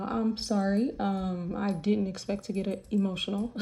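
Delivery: soft, teary voice, fighting to keep it together; holding back tears. Real, not acted. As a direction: speak quietly through welling tears. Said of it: "I've definitely never cried on the internet".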